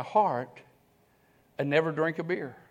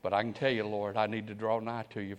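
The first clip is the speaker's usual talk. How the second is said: humble prayer; 8 semitones lower, 9 dB quieter than usual. Retold or imitated. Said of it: "bowed your head and say".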